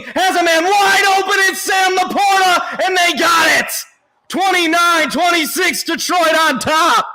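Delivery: excited touchdown call. Real, not acted.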